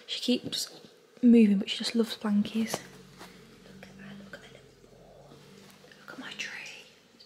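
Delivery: hushed whisper. Real, not acted. Whispering near sleeping baby.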